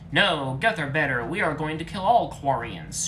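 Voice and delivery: loud angry shout; heated shouting. Acted. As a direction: yell a threat across the room. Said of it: "shouted Legion".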